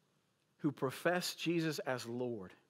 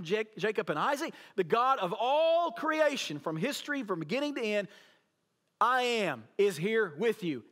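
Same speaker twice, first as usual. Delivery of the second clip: rising divine proclamation that settles to comfort; God's proclamation; 3 semitones higher, 3 dB louder than usual. Retold or imitated. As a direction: proclaim it like God himself speaking from the storm. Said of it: "He's saying".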